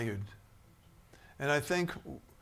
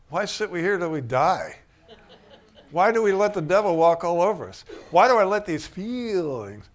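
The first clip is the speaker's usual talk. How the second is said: loud, higher, indignant questions; rousing self-challenge; 3 semitones higher, 8 dB louder than usual. Acted. Preacher voicing a believer waking up, loud rousing questioning. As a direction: challenge yourself out loud, building in force.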